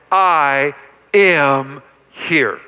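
here drawn out slow and low; stress on here. Shown as a demonstration. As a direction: lean hard on here, very slowly. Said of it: "I want to emphasize the word here".

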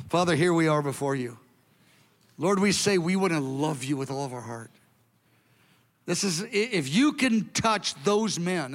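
earnest, unhurried spoken prayer; congregational prayer. Real, not acted. Pastor praying over the congregation after the sermon, earnest and steady. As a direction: pray aloud for the whole room.

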